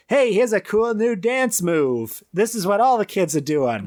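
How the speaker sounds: a hint of Larry showing off a move; lightly voiced Larry. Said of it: "And Larry's like".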